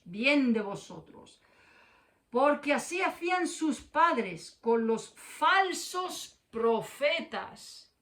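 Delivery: loud, slow, solemn warning; proclaiming Jesus' warning. Acted. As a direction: thunder the woe from the pulpit. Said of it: "te lo dijo Jesús".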